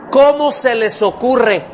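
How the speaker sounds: "¿cómo se les ocurre?" hit hard on CÓMO, slow and indignant; indignant rebuke. Retold or imitated. Paul scolds readers for the idea, indignant and loud. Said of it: "está implicando un, así como un".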